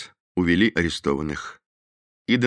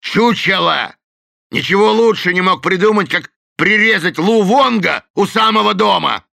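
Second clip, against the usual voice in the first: loud, high scolding; Delaney scolds his gang; scornful berating; 13 semitones higher, 8 dB louder than usual. A narrator's reading. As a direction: tear into them. Delaney berates Shaky Phil.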